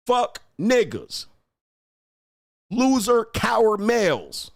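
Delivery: heated taunting. Real, not acted. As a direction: spit the insults out. Escalating rant at viewers.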